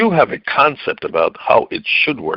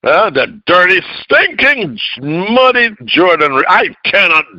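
indignant Naaman; 5 semitones higher than usual. Retold or imitated. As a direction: huff it out like a proud man insulted. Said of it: "went away in a rage".

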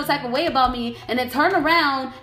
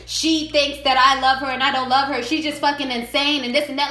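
mocking the ex; 4 semitones lower than usual. Mocking the ex's plan.

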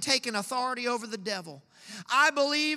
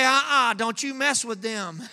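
God stepping in. Pretend. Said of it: "for God to stand and say".

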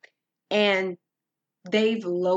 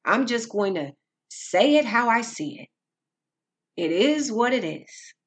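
slightly raised voice, shrugging off all criticism; mock self-justifying; 2 semitones higher than usual. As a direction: lightly mimic people defending their blunt talk. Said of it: "People just say whatever they think".

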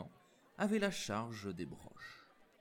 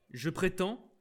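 louder, higher outburst; angry; 9 semitones higher, 5 dB louder than usual. Acted. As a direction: spit it out pale with rage. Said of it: "qui blêmissait de colère".

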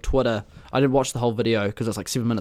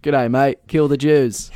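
put-on copycat joke accent, Aussie passed off as Austrian; hammed-up Australian twang billed as Austrian; mock Austrian accent; 4 dB louder, slower than usual. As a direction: parrot a bad fake Austrian accent, Aussie-style. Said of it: "wanna hear my Austrian accent".

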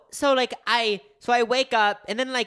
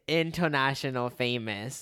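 low, slow, soft deadpan boast; mock self-importance; 7 semitones lower, 5 dB quieter, slower than usual. Friend joking about YouTuber struggles, slow mock-important deadpan. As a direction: understate the grand boast, dragging it low.

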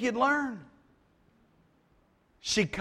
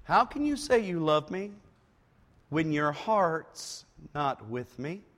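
whiny voice; 4 semitones lower than usual. Acted. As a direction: whine it like a hurt lover. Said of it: "That's what she says".

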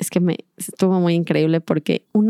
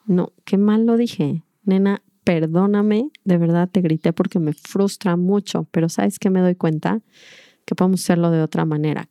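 gentle apology. Retold or imitated. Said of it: "desde otro lugar y energía".

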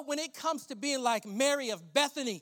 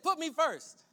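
loud, raised proclamation of God's words; emphatic command; 5 semitones higher, 5 dB louder than usual. Acted. Preacher voicing God, loud and emphatic.

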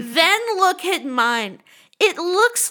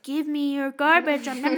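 lightly voiced trash can; 2 semitones higher than usual. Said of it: "the garbage is like".

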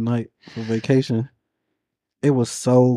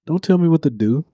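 put-on sassy old man; 2 semitones higher, faster than usual. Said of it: "my sassy old man".

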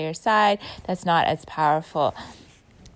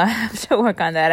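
laughing; 3 semitones higher, 4 dB louder than usual. Real, not acted.

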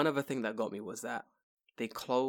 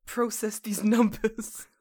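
high, slow, whispered strain; 9 semitones higher, 6 dB louder, slower than usual. Pretend. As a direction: squeeze it out like a straining computer. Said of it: "kicking the hard drive".

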